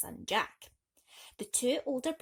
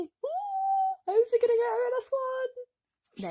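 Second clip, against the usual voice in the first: much higher, louder wondering aloud; excited question; 7 dB louder, slower than usual. Real, not acted. Storyteller asks the kids excitedly.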